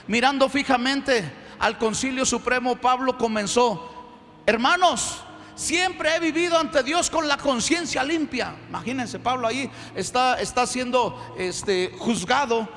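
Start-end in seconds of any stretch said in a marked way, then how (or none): 4.4-8.5 slow, projected declaration to a council; proclaiming Paul's defence. Acted. Paul addresses the Supreme Council, proclaiming. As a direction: stretch it out like a bold public address.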